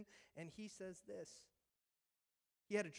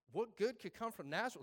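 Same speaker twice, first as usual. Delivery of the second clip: scoffing disbelief; 2 semitones higher, 5 dB louder than usual. Retold or imitated. Nathanael scoffs at the town.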